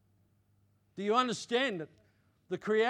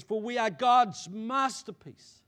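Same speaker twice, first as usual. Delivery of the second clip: slow, louder preacher's declaration; scripture proclamation; 4 semitones higher, 6 dB louder, slower than usual. Real, not acted. Preacher reading Ephesians to the congregation, slow proclamation. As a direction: proclaim it with weight, stretching the key words.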